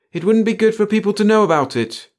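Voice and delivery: high, loud blurted protest; bursting out. A narrator's reading. Pringle blurting to the chief why it stays secret, bursting out. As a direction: burst out with it, pitch leaping up. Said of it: "Pringle burst out".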